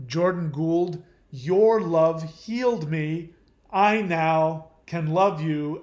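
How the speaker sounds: slow, loud, swooning declaration, half-mocking; mock gushing partner. Mocking a partner's imagined vow, swooning and loud. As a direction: ham up the rescued lover's grateful vow.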